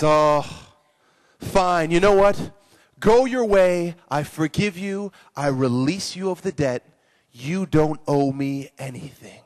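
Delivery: lightly voiced king relenting, slowing at the end; compassionate king. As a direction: grant pardon with a touch of royal weight. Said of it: "has compassion for the man".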